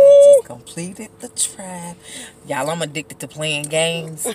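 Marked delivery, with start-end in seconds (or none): 0.0-2.0 louder, higher triumphant report; real excited boast. Real, not acted. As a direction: announce the win proudly. Winning in game.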